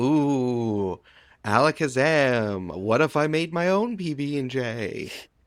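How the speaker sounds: very slow, playful party-magician flourish, "ooh" stretched. Voicing a character wiggling fingers to do a trick: playful children's magician. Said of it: "like she's a child's magician".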